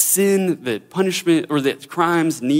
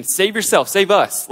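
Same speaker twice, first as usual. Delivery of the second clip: mild mocking; 4 semitones higher than usual. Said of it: "one of the criminals starts mocking Jesus".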